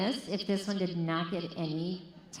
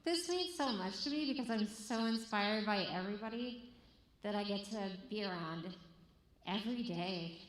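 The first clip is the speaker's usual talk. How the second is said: holding back tears; 2 semitones higher than usual. Real, not acted. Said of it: "trying not to cry 'cause I'm so touched".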